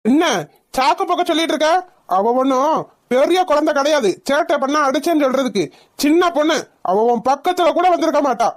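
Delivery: high-pitched furious scolding; a mother, outraged her child was hit, scolds in a high voice; angry scolding. Acted. Mother quarrels over slapped daughter.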